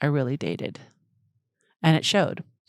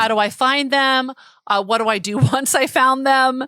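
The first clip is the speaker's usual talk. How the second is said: put-on young single asking; 6 semitones higher, 5 dB louder than usual. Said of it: "you know".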